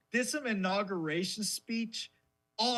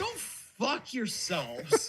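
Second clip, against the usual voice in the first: mock farewell; 2 semitones higher, slower than usual. Mocking England directly.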